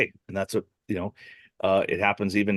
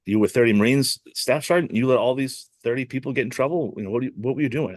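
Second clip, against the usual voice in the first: higher-pitched, insistent mock scolding; acted reprimand; 5 semitones higher than usual. Superior questioning a staff sergeant about thirty Marines, acted reprimand. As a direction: imitate a superior taking someone to task.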